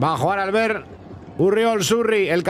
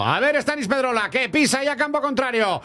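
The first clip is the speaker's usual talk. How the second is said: rising excitement; 3 semitones higher than usual. Real, not acted. Attack building toward a goal.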